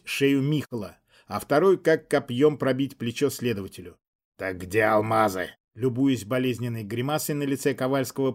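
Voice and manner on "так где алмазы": lower, menacing repeat of the question; a lightly voiced demon pressing again; demonic whisper. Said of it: "повторил свой вопрос Заболоцкий".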